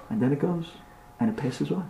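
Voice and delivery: quiet, careful storytelling; hushed relief. Acted. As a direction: drop to a hush as danger passes. Danger passes over the house.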